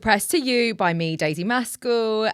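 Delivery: bright, high newsreader delivery; news reporter voice. Acted. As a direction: read it like a TV news anchor. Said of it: "good, like, um, news reporter voice there".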